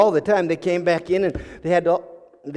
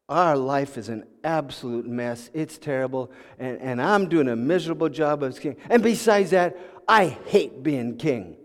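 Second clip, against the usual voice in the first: dejected admission; 5 semitones lower than usual. Acted. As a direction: confess failure with your head bowed. King bows head, admits failure.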